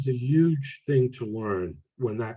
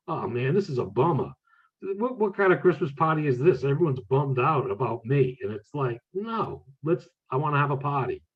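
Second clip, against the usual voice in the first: lightly voiced kids griping at a party; complaining kid; 3 semitones higher than usual. Kids in spirit griping about a glum Christmas party, mock complaint. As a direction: imitate a bummed-out kid, pitch jumping on protests. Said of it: "I can hear the kids now saying".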